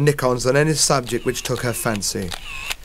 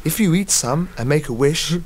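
squeaky mouse; 5 semitones higher than usual. Acted. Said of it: "squeaked Millie".

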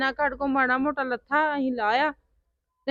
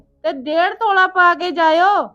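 mock aunt's demand; 3 semitones higher, 7 dB louder than usual. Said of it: "ਅਗਲੀ ਆਂਦੀ ਆ".

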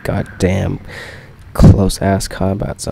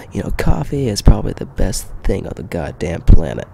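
whispered mock donkey line; a hushed, joking donkey aside; Donkey quote; 4 dB louder than usual. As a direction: breathe it out unvoiced. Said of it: "Donkey's just like".

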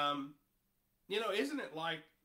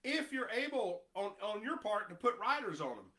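raised, taunting king's offer; mocking offer; 5 semitones higher, 3 dB louder than usual. Preacher voicing the Assyrian king mocking Hezekiah, taunting. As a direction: dangle the gift with a sneer. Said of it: "Talk about mocking him now".

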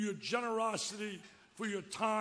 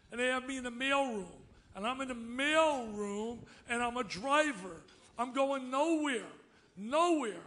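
mock moaning George; 3 semitones higher than usual.

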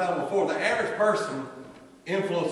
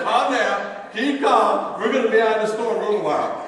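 self-talk; 7 semitones higher, 8 dB louder than usual. Retold or imitated. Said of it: "was telling myself".

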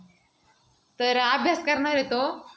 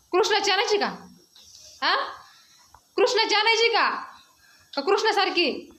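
higher-pitched questions to a little one; 4 semitones higher than usual. Real, not acted. Parent asking a child which cycle he wants, coaxing.

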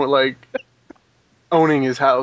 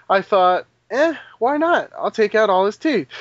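dentist ex; 5 semitones higher than usual. Retold or imitated. Voicing the dentist ex-girlfriend.

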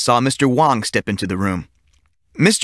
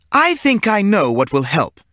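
sly teacher; 9 semitones higher than usual. A narrator's reading.

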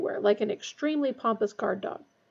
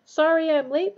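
hurried apology; 6 semitones higher, 5 dB louder than usual. A narrator's reading. Bursting into class late.

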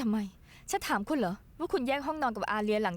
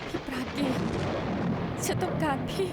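tearful plea; 2 semitones higher than usual. Acted. Crying out to her brother.

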